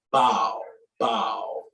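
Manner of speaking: open, trailing "bow" for ball; Atlanta "ball". Shown as a demonstration. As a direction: stretch "bow" out, Atlanta style. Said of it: "we say basketball".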